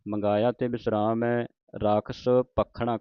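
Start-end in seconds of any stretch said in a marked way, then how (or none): 1.7-3.0 ਰਾਖਸ਼ ਭਖਣਾ with a held, tight kh; tight adhak. Shown as a demonstration. Teacher explaining the adhak, ਭਖਣਾ said tightly. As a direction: press the kh in ਭਖਣਾ as a double. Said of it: "ਕੱਸ ਕੇ ਬੋਲਣਾ ਅਧਿਕ ਦੇ ਨਾਲ".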